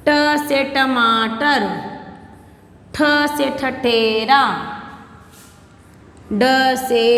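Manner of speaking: slow, drawn-out letter-and-word drill; consonant recitation. Shown as a demonstration. Teacher dictating Hindi consonants to first class, slow recitation. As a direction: stretch each letter, then its word, for repeating.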